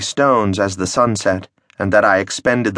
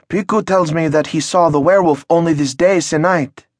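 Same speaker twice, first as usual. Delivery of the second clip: excited peasant; 7 semitones higher than usual. Acted. Excited peasant voiced higher.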